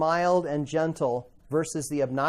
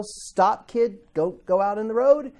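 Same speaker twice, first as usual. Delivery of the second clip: a raised warning shout, higher; mock yell; 4 semitones higher, 4 dB louder than usual. Parent warning a child about the road, raised mock yell. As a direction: call out to a kid running for the road. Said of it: "times where you yell".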